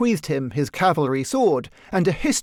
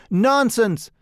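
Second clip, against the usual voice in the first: louder, higher dismissive nonsense; emphatic retort; 6 semitones higher, 4 dB louder than usual. A narrator's reading. Painter Trevor brushing off Huey's joke, loud retort. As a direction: wave the idea away with a louder Nonsense!.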